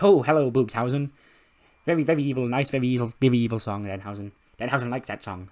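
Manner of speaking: lightly voiced theatrical villain; Danhausen. Danhausen praising the evil song, light theatrical character voice. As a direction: greet brightly, then approve with relish. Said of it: "after doing the Danhausen voice".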